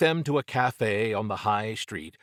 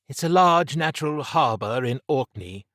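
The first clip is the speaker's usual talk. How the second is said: higher, louder character voice; raised voice of a knowledgeable colleague; Trish explaining; 6 semitones higher, 5 dB louder than usual. A narrator's reading. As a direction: pitch it up to explain.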